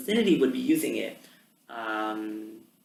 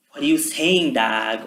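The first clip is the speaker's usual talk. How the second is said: stereotypical slang; 7 dB louder, slower than usual. Retold or imitated. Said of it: "you have this stereotypical".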